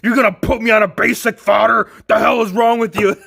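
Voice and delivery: half-joking angry rant; mock angry figure. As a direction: play an indignant action figure scolding its owner. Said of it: "So now he's angry".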